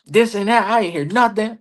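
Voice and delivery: retold heated protest, pitched well up; high, agitated complaint, acted out. Wrestler retelling his backstage venting to a colleague, heated. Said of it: "I'm heated".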